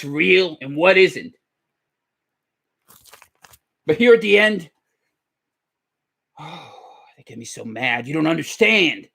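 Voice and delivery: put-on gravelly firebrand host voice; gravelly talk-show character. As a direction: rant in a forced gravelly voice like a theatrical call-in host. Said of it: "hard to do that deep, gravelly voice".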